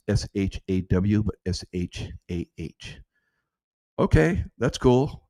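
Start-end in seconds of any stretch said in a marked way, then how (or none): 0.1-3.0 spelled out slowly. Shown as a demonstration. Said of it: "change Shah to".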